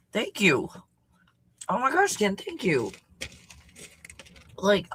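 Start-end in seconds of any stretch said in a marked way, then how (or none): 0.1-2.9 sincere thanks. Real, not acted. Thanking Ken for the cabin.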